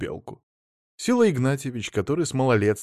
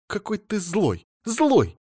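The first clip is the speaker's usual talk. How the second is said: put-on childish whine; 10 semitones higher, slower than usual. A narrator's reading. Wife whines at husband.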